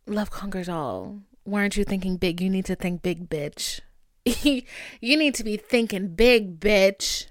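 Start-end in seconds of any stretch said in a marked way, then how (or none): 5.0-7.3 louder, punchier repeat; louder emphatic repeat. Real, not acted. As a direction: hammer the point home. Repeats line, second time louder.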